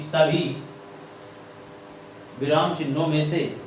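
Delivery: phrase by phrase with long pauses; note dictation. Shown as a demonstration. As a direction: dictate a note, waiting after each phrase. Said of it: "लिखो note point". (नोट लिखवाते हुए, टुकड़ों में रुक-रुककर)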